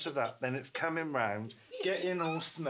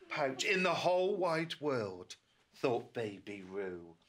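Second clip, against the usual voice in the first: put-on reading to a toddler; slower than usual. A narrator's reading. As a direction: read it gently to a little one. Reads story to a child.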